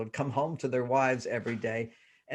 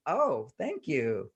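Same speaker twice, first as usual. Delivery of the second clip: grateful tone; 3 dB quieter, much slower than usual. Retold or imitated. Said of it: "The tone of voice".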